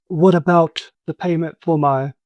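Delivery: lightly voiced pleading NPC; Sad Boy's voice.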